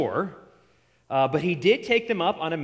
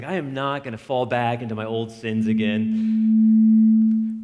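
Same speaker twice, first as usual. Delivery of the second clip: resolute vow; 3 semitones lower, 7 dB louder, slower than usual. Retold or imitated. Recalling vow after mission trip.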